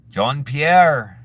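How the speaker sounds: lightly attempted French accent. Vlogger imitating old co-worker, attempted French accent. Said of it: "the only French accent I can do is when I'm, like, manifesting my old co-worker".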